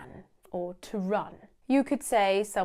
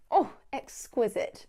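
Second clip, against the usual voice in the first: posh diner; 3 semitones higher than usual. Pretend. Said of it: "Very, very posh".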